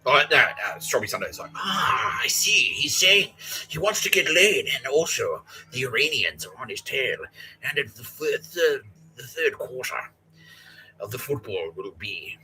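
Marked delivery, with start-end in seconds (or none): 1.5-12.4 lightly voiced crazed cashier; mock conspiracy voice. Mocking drive-through worker.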